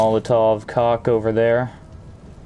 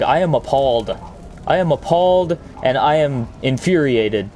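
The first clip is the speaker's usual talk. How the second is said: mock outrage; 3 semitones higher than usual. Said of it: "because I'm so angry".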